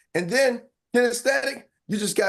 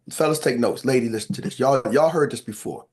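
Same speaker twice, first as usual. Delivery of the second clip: low playful seducer's voice; sexy voice; 7 semitones lower than usual. Pretend. Speaker tells fellas to take notes, sexy voice. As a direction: put on a deep romancing voice. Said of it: "put my sexy voice on".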